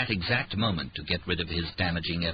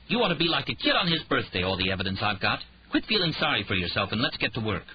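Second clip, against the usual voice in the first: snapped back; 4 semitones higher, faster than usual. Acted. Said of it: "She snapped back".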